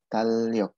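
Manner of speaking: "tal riok" said as tal-lyok with a long l; doubled l linking both halves of "tal riok"; double L reading. Shown as a demonstration. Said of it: "Jadinya dibacanya double L".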